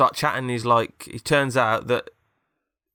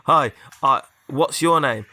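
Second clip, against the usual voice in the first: story character greeting; 3 semitones higher, 7 dB louder, slower than usual. Acted. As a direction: raise your voice for a put-on greeting. Acted meeting with robot head.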